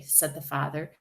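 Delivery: ordinary delivery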